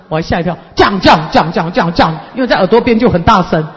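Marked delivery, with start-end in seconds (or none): 0.7-2.2 louder mumbling. Retold or imitated. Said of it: "更大声".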